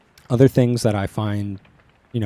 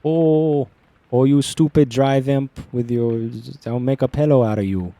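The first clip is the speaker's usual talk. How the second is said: higher, put-on Minnesotan accent; 5 semitones higher, 5 dB louder than usual. Player voicing the character in a hammed-up Minnesotan accent. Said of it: "is it Minnesotan?".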